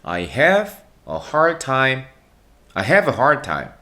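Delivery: "have a hard time" run together, "hard" softened to "하r"; native linking. Shown as a demonstration. Teacher shows how native speakers link the phrase. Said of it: "원어민들은 어떻게 발음하냐면".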